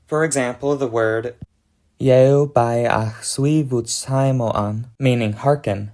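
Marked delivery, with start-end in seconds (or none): 2.0-4.9 "Yeo bai ach sui vut saimo an" said slowly, syllable by syllable, with varying stress; five-level stress pattern. Shown as a demonstration. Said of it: "has a stress pattern including each of the five syllable stresses".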